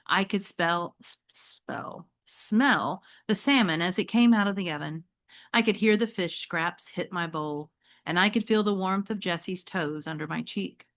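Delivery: reading a novel aloud to the class; teacher reading a chapter book to students; story narration. Acted. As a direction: tell it like a read-aloud storyteller.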